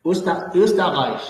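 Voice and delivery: Österreich said slowly with emphasis; slow model word. Shown as a demonstration. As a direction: spell out Österreich slowly for the student. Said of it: "teacher models pronunciation slowly".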